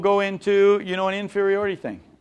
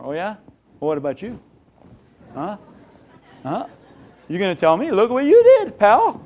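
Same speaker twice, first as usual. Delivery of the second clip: turns it around, rising to an indignant yell; mock indignant retort, builds to a shout; defensive comeback; 4 semitones higher, 5 dB louder than usual. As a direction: snap back, louder and higher.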